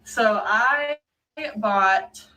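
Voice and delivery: talking with retainers in; slightly lisped retainer speech; wearing a retainer. Real, not acted. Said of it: "Yes, I sound funny. I have my retainers in".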